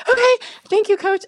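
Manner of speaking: very high, loud, starstruck squeal; giddy. Retold or imitated. Student thanking the legendary coach, giddy high squeal.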